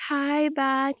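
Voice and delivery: small, high voice to dad; retold tender hello; emotional greeting. Retold tearful greeting with hug.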